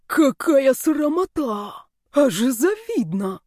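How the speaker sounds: drawn-out theatrical delight; mock rapture. A narrator's reading. Snake Yani swoons over the witch's graduation dress, slow and high.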